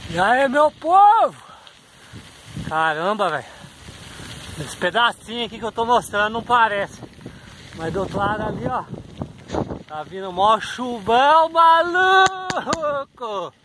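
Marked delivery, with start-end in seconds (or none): 0.1-1.4 drawn-out loud hello; stretched greeting. Real, not acted. Vlog greeting call-out. 9.9-13.5 slow, stretched high maluco; excited exclamation. Real, not acted. Rain coming, exclaiming.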